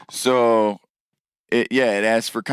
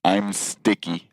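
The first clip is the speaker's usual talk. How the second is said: deadpan comment; 3 semitones lower, 3 dB quieter, slower than usual. Retold or imitated. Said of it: "Anybody wanna know what it said?".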